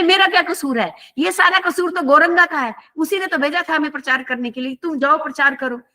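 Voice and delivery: retold childish blame-shifting; childlike innocent protest. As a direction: lightly imitate a child pleading innocence. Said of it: "उन्होंने ऐसे बच्चे की तरह बातें की".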